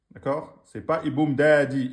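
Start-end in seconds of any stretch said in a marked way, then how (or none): 1.0-1.9 rushed reading. Shown as a demonstration. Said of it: "Vous êtes parti trop vite".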